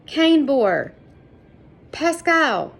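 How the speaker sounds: high, loud calling out into rubble; desperate calling out for the buried men; roaring names. A narrator's reading. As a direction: shout the names as if searching the wreckage. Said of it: "continued to roar".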